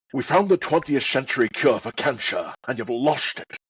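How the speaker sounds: Scottish slur with every s as sh; lightly voiced Scottish film star; Sean Connery. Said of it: "my impressions of Sean Connery".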